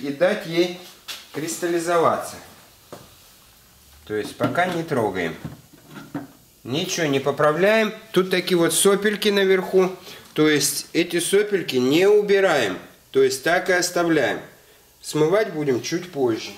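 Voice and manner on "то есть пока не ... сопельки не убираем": ordinary talk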